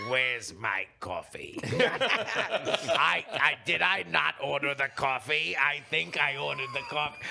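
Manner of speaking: a hint of a petty Emperor; lightly voiced Emperor. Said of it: "him just being like".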